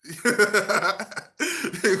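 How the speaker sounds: loud burst of laughter. Real, not acted. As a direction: crack up at your own joke. Laughs at own bit.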